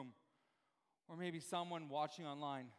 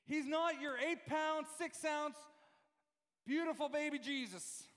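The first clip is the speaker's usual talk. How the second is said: slow, drawn-out Southern voice; Southern accent; 9 semitones higher, 4 dB louder, slower than usual. Acted. Preacher mimicking a racing film's baby Jesus line, Southern accent. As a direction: ham up a Southern drawl. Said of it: "That was my southern voice again".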